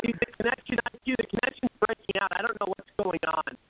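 garbled bad phone line; scrambled voice. Real, not acted. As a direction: voice breaking up over a bad connection. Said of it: "your voice is all garbled".

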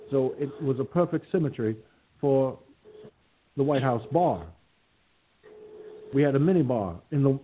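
lightly voiced Jimmy Carter, folksy and easygoing; mild, good-natured Carter send-up; Jimmy Carter impression. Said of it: "Oh, and I can do Carter, too".

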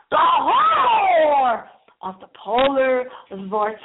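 slow, loud, hammed horror title; mock movie trailer. Host hams up an imaginary horror film title for listeners.

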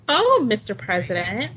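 mock her stiff formality. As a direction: parody of her prim phone greeting. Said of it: "trying to act formal".

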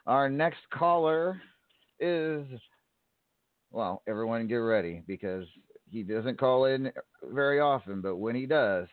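big ring-announcer build-up. Acted. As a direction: introduce the champion like a ring announcer. Host introduces caller, announcer.

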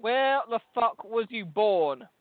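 slow, drawn-out insistence; exasperated demand. Real, not acted. Man challenging a woman on her birthplace, exasperated. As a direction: press the question slowly, word by word. Pressing her after she dodged.

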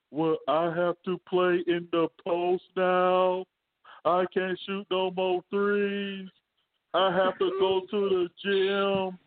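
slow, put-on African accent. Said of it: "are you making fun of my man African accent".

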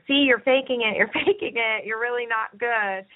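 a hint of a taunting inner critic; mild mocking naysayer; lightly voiced gremlin. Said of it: "our gremlin is saying".

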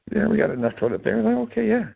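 high and loud, breezy mock reply; mock wife reply. Man mimics his wife brushing off the toilet paper question, high and loud.

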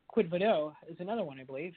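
hoarse, fading voice; losing voice. Real, not acted. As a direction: voice giving out, a bit raspy. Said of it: "I'm losing my voice a bit".

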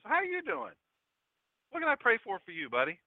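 high-pitched, lightly acted concern; lightly voiced, high and solicitous; caring greeting. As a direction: imitate a friend checking in, pitched high. Acts out sick friend's caring greeting.

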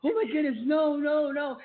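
high, loud mock panic; retold panic. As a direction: re-enact rising panic in a high-pitched voice. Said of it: "I started panicking".

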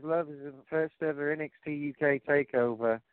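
amateurish attempt at a British accent; lightly put-on, unconvincing British accent; bad British accent. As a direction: quote her in a clumsy British accent. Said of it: "I do a horrible British accent".

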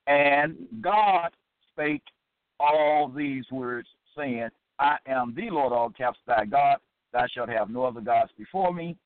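measured Bible recitation; weighty opening, steady verse reading; scripture reading. Acted. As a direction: read the commandment out deliberately. Reads scripture aloud.

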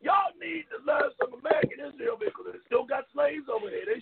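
heated, rising rant; angry rant. Real, not acted. Cohost ranting at a Trump fan on air, angry. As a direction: vent it hard at the caller.

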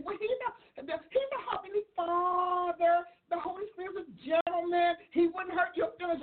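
mock pious churchgoer. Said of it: "you know how people say".

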